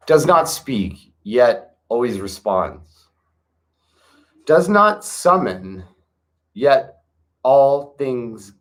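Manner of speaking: scripture reading. Acted. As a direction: read each line like sacred text, with pauses. Reads scripture aloud with music.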